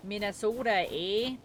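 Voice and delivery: lightly put-on Minnesota accent; playful Minnesota accent with a tagged-on "eh". Streamer guessing a character's home state, mock Minnesota accent. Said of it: "she's from Minnesota".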